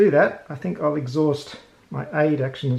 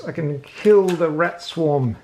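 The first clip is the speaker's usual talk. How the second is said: ordinary talk, nothing marked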